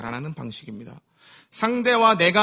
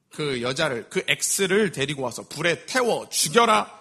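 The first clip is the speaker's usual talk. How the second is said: furious order; 3 semitones lower, slower than usual. Acted. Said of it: "극대노를 합니다".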